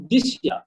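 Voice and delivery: "this year" linked as di-shia; blended pronunciation. Shown as a demonstration. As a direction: say "this year" with sh in the join. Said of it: "it's not this year". ("this year"-কে দিশিয়া)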